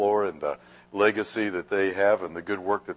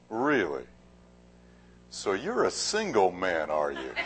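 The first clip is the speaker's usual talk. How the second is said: coy flirt; 3 dB quieter than usual. Acted. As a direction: play the lonely widow sizing him up. Fourth lady flirts with murderer.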